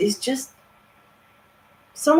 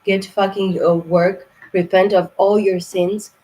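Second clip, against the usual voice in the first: much louder, berating tough love; angry shout; 6 dB louder than usual. Real, not acted. Reader yelling at fire signs to repent, loud. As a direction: yell them into action. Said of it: "I hope I was not too crazy".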